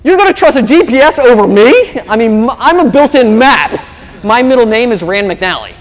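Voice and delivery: husband boasting to his wife that he is the map, hammed-up; macho husband. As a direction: puff up with mock male pride. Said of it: "To which a man replies".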